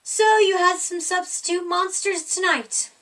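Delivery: high, loud monster voice; monster Gabe. A narrator's reading. Monster Gabe teasing the child. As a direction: tease in a big monster voice.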